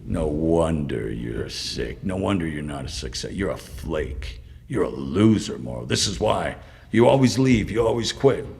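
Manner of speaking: lightly imitated scolding, spaced out line by line; retold berating. Psychiatrist berating a patient who is breaking down, retold berating. Retelling a psychiatrist's verbal abuse.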